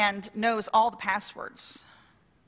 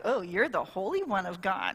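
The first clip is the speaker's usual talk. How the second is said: dry mock sneer, softer and lower; sarcastic; 4 semitones lower, 4 dB quieter than usual. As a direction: toss it off with scorn. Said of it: "Was it, like, sarcastic".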